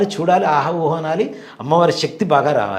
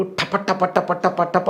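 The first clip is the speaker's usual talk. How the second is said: rapid-fire imitation of bulbs bursting; popping bulbs; 3 semitones higher, much slower than usual. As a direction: rattle off the pops. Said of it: "ఒక్కసారి పగిలిపోయినాయి మొత్తం". (టపటపమని పగిలే శబ్దం అనుకరణ)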